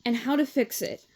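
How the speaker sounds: plain reading voice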